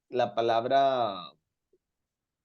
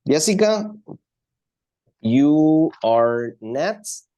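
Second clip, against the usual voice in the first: calling out a name; 3 semitones higher, 4 dB louder, much slower than usual. Real, not acted. Calling on a student.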